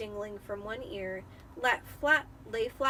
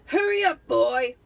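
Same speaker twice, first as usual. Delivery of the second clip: much higher, loud impatient yell; shout; 3 semitones higher, 12 dB louder than usual. Acted. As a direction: yell from the kitchen at the boy. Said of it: "shouted Uncle Vernon".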